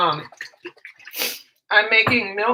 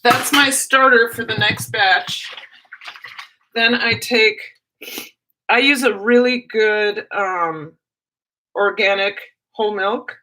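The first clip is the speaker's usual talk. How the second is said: stuffy nose. Real, not acted. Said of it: "I'm so sorry about my nose".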